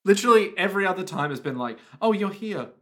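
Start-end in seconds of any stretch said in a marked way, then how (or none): 2.0-2.7 building to a loud, high mock shriek; from casual greeting to hammed-up panic; imitated startled yell at the end; mock alarm. Acting indifference, then mock alarm.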